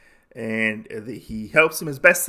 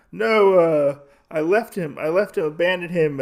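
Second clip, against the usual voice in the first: retold frightened confession; 6 semitones higher, 5 dB louder than usual. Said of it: "This man is obviously scared for his life".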